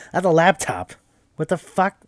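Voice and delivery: high, loud baffled outburst; retold disbelief, pitched right up; incredulous shock. Group realizing the ghost is a laptop, incredulous.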